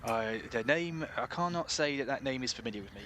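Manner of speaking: hesitant West Country shopkeeper; unsure, lightly voiced West Country local; West Country accent. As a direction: puzzle over it in mild West Country. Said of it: "best West Country accent this is".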